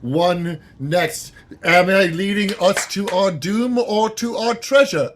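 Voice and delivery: dramatic narration. Acted. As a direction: narrate it like an epic. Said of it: "I'm narrating this, of course".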